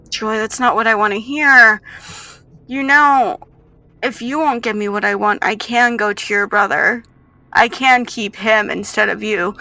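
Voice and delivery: lightly voiced threatening captor; a touch of menace, pressing the child; menacing captor.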